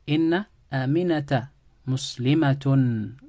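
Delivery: slow, deliberate Inna Aminata Muslimatun with weight on Inna; emphatic assertion. Shown as a demonstration. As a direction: spell out the emphasis slowly. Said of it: "So I've emphasized".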